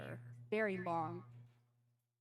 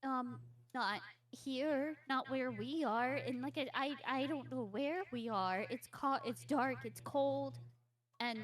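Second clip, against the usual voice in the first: put-on slightly higher, halting child voice; frightened child; 5 semitones higher than usual. Captive girl describing the dark place, anxious and halting. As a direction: falter through it as a lost girl.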